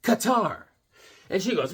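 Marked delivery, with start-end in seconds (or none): 0.0-0.6 much higher, louder replay; mock yourself answering; mock eager reply. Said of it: "I said".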